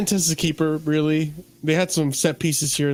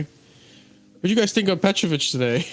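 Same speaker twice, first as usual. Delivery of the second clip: sarcastic; 3 semitones higher than usual. Acted. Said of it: "this is sarcasm".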